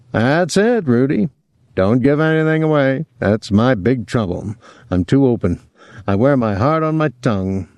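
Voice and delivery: lightly acted talker, pitch leaping up; a touch of theatrical openness; lightly voiced Willie. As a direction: expansive character voice with high swoops.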